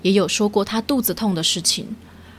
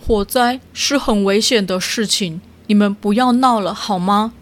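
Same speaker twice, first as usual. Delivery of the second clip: stern; 3 dB louder than usual. Acted. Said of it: "猫头鹰也严肃地告诉猫咪们".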